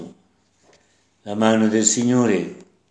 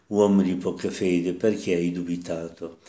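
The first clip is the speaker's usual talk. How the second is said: gentle, not a reproach; 3 dB quieter than usual. Shown as a demonstration. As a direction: tell Peter tenderly, no scolding. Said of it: "Che non è un rimprovero". (dolce, senza rimprovero)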